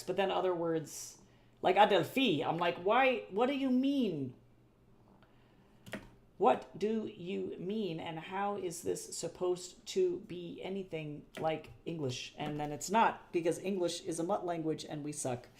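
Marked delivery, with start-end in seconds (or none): 2.8-12.3 mock bafflement, slowing to a deliberate crawl; baffled protest. Learner protesting unfamiliar Greek words, exaggerated bafflement.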